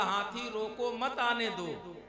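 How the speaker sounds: group मत with आने दो; pause after रोको. Shown as a demonstration. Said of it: "तो क्या बदला?". ("रोको" के बाद विराम, "मत आने दो" एक साथ)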